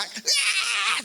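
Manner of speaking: high-pitched scream of fright, hammed-up; mock scream. Preacher imitating women screaming in fear, high mock scream. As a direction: let out a shrill mock scream.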